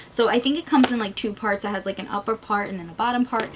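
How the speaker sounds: quick, rushed explanation; hurried run-through of the details; talking fast. Real, not acted. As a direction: rattle it off, pushing through. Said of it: "Sorry, I'm talking so fast".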